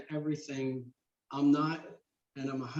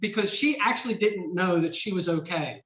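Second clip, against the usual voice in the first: real choked-up voice, pitched up; choking up; 3 semitones higher, 5 dB louder than usual. Real, not acted. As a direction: push through a lump in the throat. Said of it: "I'm choking up here".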